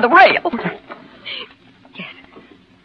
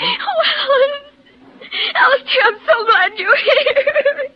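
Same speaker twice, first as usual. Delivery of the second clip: tearful; 5 semitones higher, slower than usual. Acted. Wife sobbing to friend.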